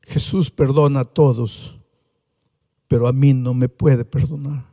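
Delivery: tearful. Retold or imitated. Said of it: "Y ella llorando me dice".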